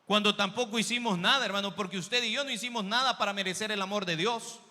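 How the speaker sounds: loud, insistent sermon delivery; emphatic preacher, swelling in force; impassioned preaching. Acted. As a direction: press each point home to the church.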